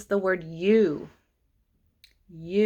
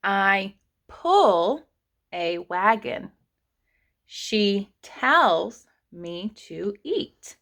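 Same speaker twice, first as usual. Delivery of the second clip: rereading sentences; much slower than usual. Shown as a demonstration. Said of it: "reread all of these sentences".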